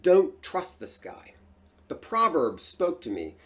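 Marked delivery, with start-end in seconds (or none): 0.0-1.4 slow, louder, emphatic warning; mild retold yell, higher and slow; inner warning yell. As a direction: imitate an urgent inner voice, drawn out. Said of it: "My subconscious was yelling at me".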